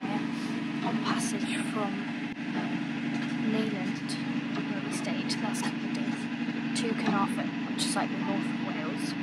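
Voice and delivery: soft, half-whispered update; quiet. Real, not acted. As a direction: keep it down below deck. Quiet talk below deck.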